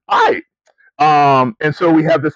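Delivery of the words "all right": dry resigned okay. Retold or imitated. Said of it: "and I'm going".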